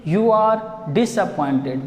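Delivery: dropped low, like a remark over the shoulder. Shown as a demonstration. Teacher showing how Ausable speaks it, in a low tone. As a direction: say "You are disappointed" pitched low. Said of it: "Visibly means speaking in a very low tone".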